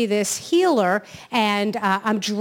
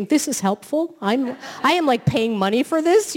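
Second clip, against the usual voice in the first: acted-out disbelief, pitched up; mock incredulity; 4 semitones higher than usual. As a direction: question it as if being cheated. Acts out indignant reaction to healer.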